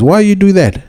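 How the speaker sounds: lightly put-on Asian accent, clipped broken English; mock accented question. Joke, Asian guy voiced higher.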